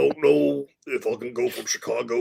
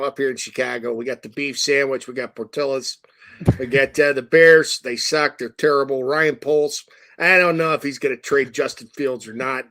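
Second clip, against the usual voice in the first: a light, understated Chicago accent. Shown as a demonstration. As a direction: do a lightly voiced Chicago sports-fan rant. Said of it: "Give us your Chicago accent".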